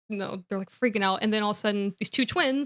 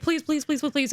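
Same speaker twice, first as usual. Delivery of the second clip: eager begging; 5 semitones higher than usual. Retold or imitated. Twins begging to get Harry.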